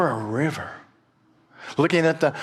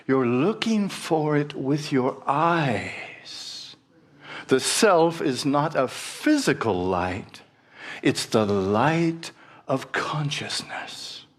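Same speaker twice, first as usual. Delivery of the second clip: slow patient sage; slower than usual. Acted.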